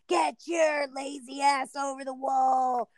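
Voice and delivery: slow barked drill order; drill sergeant yell. Retold or imitated. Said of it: "they would be yelling at you".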